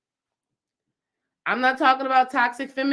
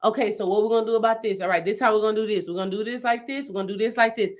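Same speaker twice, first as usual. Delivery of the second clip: fast mock planner voice; imitating the structured partner, brisk; quoting partner's planning; much faster than usual. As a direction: rattle off the plan quickly. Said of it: "he's the structure".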